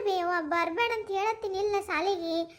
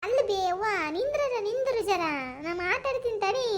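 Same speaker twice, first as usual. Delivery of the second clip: higher, urgent begging to his mother; anxious pleading; 4 semitones higher than usual. Acted. Son begs his mother not to come, higher and anxious. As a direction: stop her before she goes to school.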